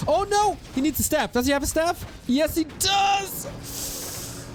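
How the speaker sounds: excited high caster call; rising hype at the clutch moment; esports caster. Real, not acted. Tense item moment in fight.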